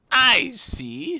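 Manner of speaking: high, loud interruption; imperious queen. Acted. Queen cutting off the gardener, imperious.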